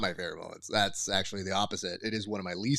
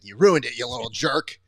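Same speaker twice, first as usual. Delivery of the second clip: Home Alone speech; 6 dB louder than usual. Retold or imitated. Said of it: "I gave him the Home Alone speech".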